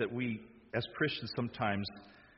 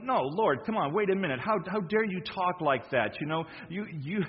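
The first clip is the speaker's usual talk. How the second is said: raised, urgent protest to his master; pleading Peter; 6 semitones higher, 3 dB louder than usual. Acted. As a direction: plead with Jesus as a worried follower. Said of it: "Peter pulled him aside and said".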